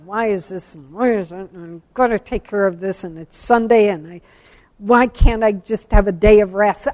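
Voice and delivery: mock self-pitying moan and complaint; grumbling. Speaker imitating herself leaving church on Sunday, grumbling. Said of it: "I was grumbling".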